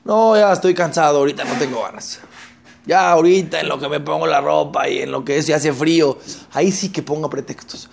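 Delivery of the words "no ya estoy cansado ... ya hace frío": lightly voiced lazy person making excuses; a hint of a lazybones. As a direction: whine out of going. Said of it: "tiene que salir su flojera".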